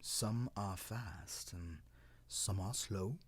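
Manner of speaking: put-on slow, plain-spoken old tree explaining; matter-of-fact. Cedar explains the world to cloud, slow matter-of-fact. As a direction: lay it out slowly like simple facts. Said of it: "in a very matter-of-fact voice".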